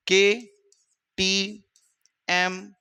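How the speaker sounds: केटीएम stretched out very long, letter by letter; drawn-out mnemonic. Shown as a demonstration. Teacher to students teaching a memory trick, stretched very slowly. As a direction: draw केटीएम out slowly so it sticks. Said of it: "क्या tricks याद कर लेते हैं?".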